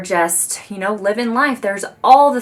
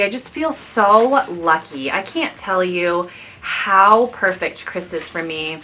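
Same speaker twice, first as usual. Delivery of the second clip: getting mushy; slower than usual. Real, not acted. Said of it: "I'm gonna get mushy".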